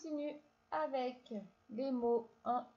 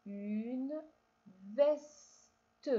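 emphatic reading. Shown as a demonstration. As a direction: sound out the word for the child. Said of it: "Alors on lit ensemble". (mot lu fort et appuyé)

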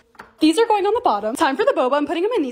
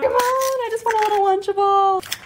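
pleading whine; 7 semitones higher, 3 dB louder than usual. Real, not acted. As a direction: beg for it, stretching the words up high. Frustrated plea for the wanted item.

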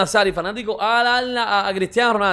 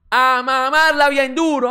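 slow taunt; 3 semitones higher, slower than usual. Real, not acted. Taunting the rival club.

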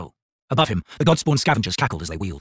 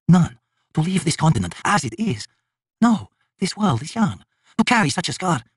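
higher, resolute god voice; a god set on bearing the scar, pitched up; elder god Krull; 8 semitones higher than usual. A narrator's reading. Krull refuses another way, resolute and higher.

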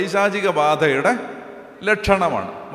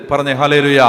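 loud call for response; 3 semitones lower, 6 dB louder than usual. Real, not acted. Preacher calls congregation response.

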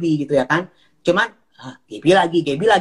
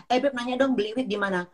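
higher, sugary mock ask that fades softer; lightly hammed-up sweet-talk; mimicking Gaby; 6 semitones higher, 7 dB quieter than usual. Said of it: "nge-D M lagi di Instagram".

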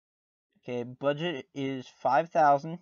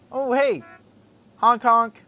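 high, loud playful honking; silly clown; 6 semitones higher, 9 dB louder than usual. Pretend. Boat honking, playful mimicry.

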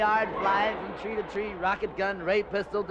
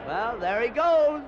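slow and admiring; 3 semitones higher, 5 dB louder, slower than usual. Acted. Watching the hero leave.

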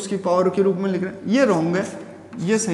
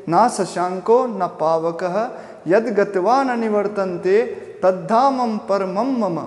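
slow, drawn-out Sanskrit recitation; measured verse recitation; slower than usual. Real, not acted. Teacher revisits the Gita verse to explain it, slow recitation. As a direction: recite it slowly, lingering on long syllables.

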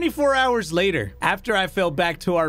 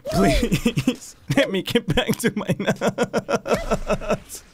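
laughing plea; 3 semitones higher, much slower than usual. Real, not acted. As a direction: beg through a laugh. Begging to get back.

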